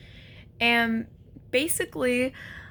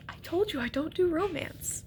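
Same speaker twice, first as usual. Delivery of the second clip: mock deadpan; 6 semitones higher, 6 dB quieter than usual. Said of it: "I'm just like".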